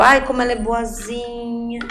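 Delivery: mock adult label. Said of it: "recebeu um rótulo".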